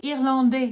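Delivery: "Irlandais" ending on "day", S silent. Shown as a demonstration. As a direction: rhyme the end of "Irlandais" with "day". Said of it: "It's exactly like day".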